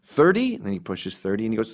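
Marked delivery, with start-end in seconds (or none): 0.0-0.6 much higher puzzled question; mock mishearing. The speaker pretending to mishear David, high. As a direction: play dumb as if you misheard.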